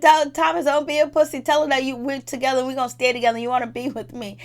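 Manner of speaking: hammed-up goading, pushing him hard; mocking taunt. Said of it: "She said".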